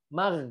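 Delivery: Mag closed on a hard g; contoh salah, G. Shown as a demonstration. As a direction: end Mag with a plain hard g. (Mag diakhiri g keras)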